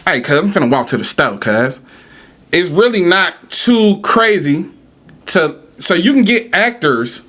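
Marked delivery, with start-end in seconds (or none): 0.0-1.8 laid-back LA AAVE with a little twang; casual LA AAVE street-talk twang. Shown as a demonstration. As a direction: slip into relaxed LA AAVE, cuz. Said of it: "You just put a little twang on it".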